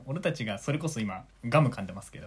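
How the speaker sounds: talking while chewing gum. Real, not acted. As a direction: speak around a piece of gum. (ガムを噛みながら)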